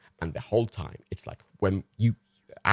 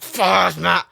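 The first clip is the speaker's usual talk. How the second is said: excited dog voice; 9 semitones higher, 7 dB louder than usual. Retold or imitated. Excited dog greeting Matt.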